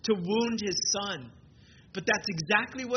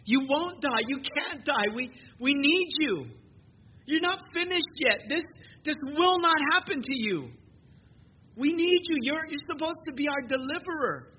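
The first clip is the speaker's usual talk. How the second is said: higher, urgent pleading with Jesus; pleading Peter; 5 semitones higher than usual. Retold or imitated. Peter begs Jesus not to die, high urgent plea. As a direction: beg him not to go, voice rising. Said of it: "He, he expresses what probably the others".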